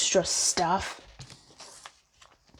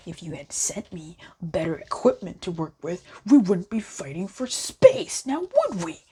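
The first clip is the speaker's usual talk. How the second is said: sarcastic scolding. Real, not acted. Spat with spirit, sarcastic.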